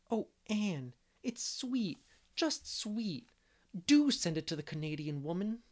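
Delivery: put-on breathless girlish delight; enraptured. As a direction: Diana thrilled by the poem. Diana enraptured by the poem.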